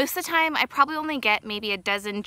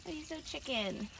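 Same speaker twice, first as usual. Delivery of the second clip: squeaky praising a dog; 6 semitones higher, 5 dB quieter than usual. Acted.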